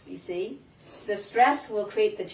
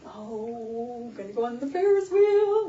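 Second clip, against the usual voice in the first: put-on a little boy thrilled about the ride; excited child; 2 semitones higher, 4 dB louder than usual. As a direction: bounce with a kid's excitement. Excited child voiced in story.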